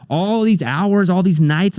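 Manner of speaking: slow, rising, choked-up feeling; emotional build. Retold or imitated. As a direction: savour each word, getting teary.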